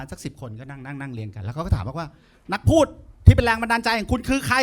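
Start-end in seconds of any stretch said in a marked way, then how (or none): 2.5-4.6 mock host question. Host asks contestants a question.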